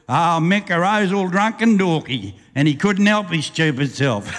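rhythmic storyteller reading a ballad; bush poem recitation. Acted. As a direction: roll the verse out like a campfire yarn.

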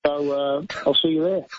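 lightly put-on Aussie accent; mildly broadened Australian accent; best Australian accent. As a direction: give fans a casual plug in Australian. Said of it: "do it in your best Australian accent".

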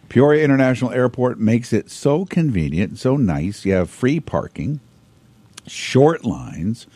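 hoarse, tired voice; losing voice. Real, not acted. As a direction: talk on a failing voice. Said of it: "I'm losing my voice".

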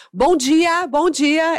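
put-on high, chirpy child's greeting; cumprimento animado imitado. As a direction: greet strangers like an eager little kid. Child greeting strangers eagerly. (bom dia agudo e animado de criança)

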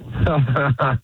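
a short put-on laugh for the host; fake laugh on request. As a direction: laugh on cue, a bit forced. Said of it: "let me hear your fake laugh".

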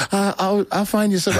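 high-pitched, hesitant put-off; evasive excuse. Retold or imitated. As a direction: act out dodging someone politely. Acts out evasive excuse to preacher.

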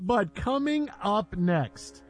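slow, measured announcer delivery; radio tease. Acted. Host teasing LeBron news before the break, slow announcer tease. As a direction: tease the next segment, drawing it out.

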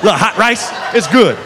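folksy food recommendations in Southern voice; imitating a chatty Louisiana cop; Southern cop tour-guide. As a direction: savour each dish like a proud local. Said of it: "proceeds to give us tourist tips".

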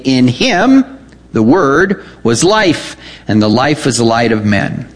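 rising, measured scripture reading. Acted. Preacher reading John to his congregation, rising reverence. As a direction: read it out as holy text.

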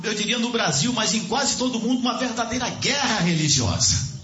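high-pitched, fervent sermon delivery; impassioned preaching. Real, not acted. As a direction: preach it urgently to the congregation.

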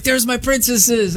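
high, slow gushing pet greeting; dog-talk voice. Shown as a demonstration. Owner greeting dogs at the door, high pet voice. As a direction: coo it way up high, drawn out. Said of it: "the way that I talk to my dogs".

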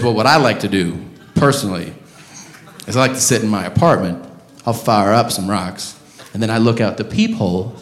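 put-on low, laid-back old driver; confiding older driver. Older driver telling his passenger his habit, low and confiding. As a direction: confide it low, lightly in character.

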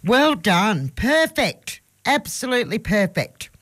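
high, delighted praise; excited praise. Real, not acted. Host praises child's reading.

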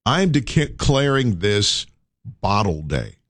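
slow, weighty declaration; slow proclamation. Acted. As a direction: announce it like a decree.

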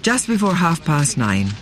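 measured scripted news narration; documentary narration. A narrator's reading. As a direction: read it as a sober documentary link. Presenter reads scripted narration.

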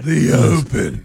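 drawn-out, hammed-up snootiness; mock arrogant. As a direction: correct them with playful, put-on superiority. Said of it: "say it in an arrogant tone".

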